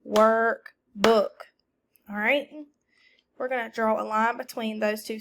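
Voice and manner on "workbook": louder, each syllable clapped apart; syllable-by-syllable clapping. Shown as a demonstration. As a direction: say it in claps, up-ward. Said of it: "Everyone say workbook".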